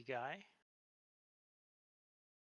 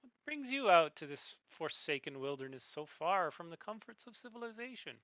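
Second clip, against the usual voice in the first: gentle voice; 2 semitones higher, 4 dB louder than usual. Acted. Rider Adra Rotclaw greeting travelers in the wilderness, gentle. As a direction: call out gently, pitch lifting on the opening words. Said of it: "in a gentle voice".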